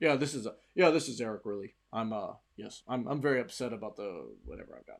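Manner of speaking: fake, put-on low deep voice. Speaker showing the deep voice they sometimes use, put-on deep voice. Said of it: "sometimes I use my deep voice".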